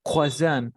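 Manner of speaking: croissant said "kwa-SAN"; corrective pronunciation model. Shown as a demonstration. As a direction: model croissant clearly without an R. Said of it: "así". (croissant bien marcado, "cuasán")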